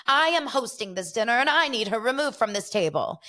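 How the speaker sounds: lightly hammed-up British accent, insisting; mock British accent. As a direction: imitate a British diner pulling rank. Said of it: "like, a British accent".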